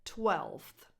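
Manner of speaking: "twelfth" with f and th both sounded; full f-th cluster in "twelfth"; dictionary pronunciation. Shown as a demonstration. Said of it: "only one correct pronunciation".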